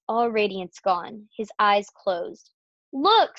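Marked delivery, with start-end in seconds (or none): 2.9-3.4 high, loud storybook cry; girl's shriek, read aloud; alarmed scream. A narrator's reading. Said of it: "screamed Fern".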